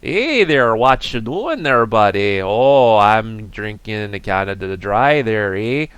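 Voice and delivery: lightly voiced Canadian accent cousin; a hint of a Canadian accent, eh; mock Canadian accent. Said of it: "this isn't the right accent".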